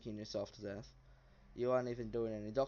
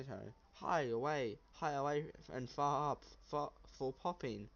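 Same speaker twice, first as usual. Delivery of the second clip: goblin voice; 2 semitones higher than usual. Acted. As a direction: babble like an eager little goblin.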